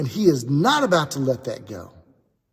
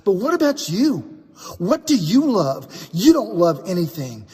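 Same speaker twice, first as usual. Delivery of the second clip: higher, louder, standing up to bullies; defiant boy; 5 semitones higher, 3 dB louder than usual. Acted. Aaron confronts the boys who mock Daniel, stuttering and defiant. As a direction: stutter through it but hold your ground. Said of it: "who stutters".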